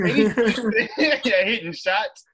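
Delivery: loud laugh through the words; laughing while ribbing. Real, not acted. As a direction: laugh at him while making the point. Laughing mid-argument.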